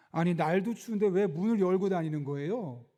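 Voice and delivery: mildly annoyed retold scolding; understated mock irritation; irritated, accusing. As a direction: imitate an owner complaining with a touch of reproach. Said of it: "짜증 섞인 목소리로 비난하듯이 이야기를 하는".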